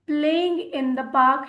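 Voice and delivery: very slow, word by word; slow dictation. Shown as a demonstration. Teacher dictates the phrase slowly to learners. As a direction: stretch each word for the class. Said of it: "teacher models example phrase".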